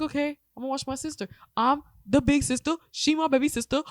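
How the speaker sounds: put-on little kid bragging about her duties; a hint of a proud child; proud big sister. Child self voiced as big sister.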